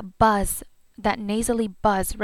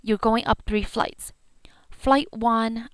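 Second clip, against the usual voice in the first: whisper; slower than usual. Shown as a demonstration. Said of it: "unvoiced whisper".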